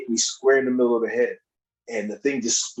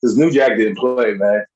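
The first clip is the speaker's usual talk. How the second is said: louder, insistent storytelling; emphatic; 6 dB louder than usual. Real, not acted. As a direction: push every line harder.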